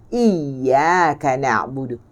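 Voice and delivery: Iyyaka na'budu with the tongue not touching the palate, slow; open, unclosed ya in Iyyaka; correct ya sound. Shown as a demonstration. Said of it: "Bukan iya". (sebut Iyyaka dengan ya yang tidak rapat)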